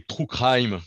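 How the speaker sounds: "true crime" said with a playful English accent, "craim". Shown as a demonstration. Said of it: "comme ça vous voyez mon accent".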